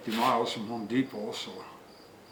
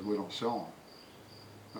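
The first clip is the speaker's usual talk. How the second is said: slow, dull shop clerk; bored clerk; 3 semitones lower, 7 dB quieter, much slower than usual. Retold or imitated. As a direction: drag it out like an uninterested clerk. Clerk's flat answer voiced.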